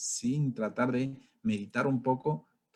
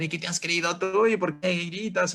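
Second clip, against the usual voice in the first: mock shouting back; 6 semitones higher than usual. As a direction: snap back like a driver who has just been yelled at. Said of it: "también comienzas a gritar".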